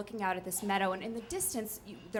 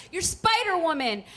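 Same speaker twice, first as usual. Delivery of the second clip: mock cheer; 6 semitones higher, 5 dB louder than usual. Belay partner cheering her on.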